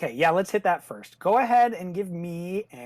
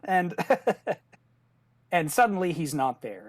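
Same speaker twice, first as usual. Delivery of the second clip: ordinary talk, nothing marked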